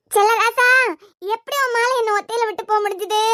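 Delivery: put-on widow's wail; keen with no real tears; mock sobbing lament. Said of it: "நான் குமரி குமரி அழுதுகிட்டு இருக்கேன்". (கண்ணீரில்லாத போலி ஒப்பாரி)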